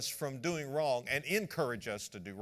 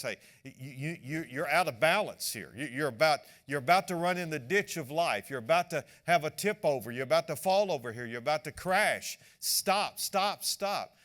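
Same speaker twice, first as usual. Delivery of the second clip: louder, pressing warning to stop; urgent warning; 6 dB louder than usual. Retold or imitated. Friend warning a reckless driver, urgent and loud. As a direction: warn them off the crash before it happens.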